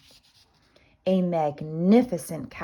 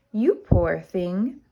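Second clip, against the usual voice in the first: slow, mildly booming giantess; a giantess booms down at a small boy; 3 dB louder, slower than usual. Acted. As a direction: let it roll out slowly. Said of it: "boomed the giantess".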